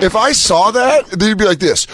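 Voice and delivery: ordinary talk, nothing marked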